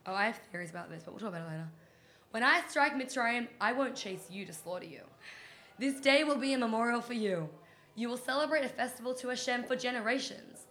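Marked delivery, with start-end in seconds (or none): 2.3-10.7 wild overacting of a divine decree; dramatic reading. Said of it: "It's my dramatic reading".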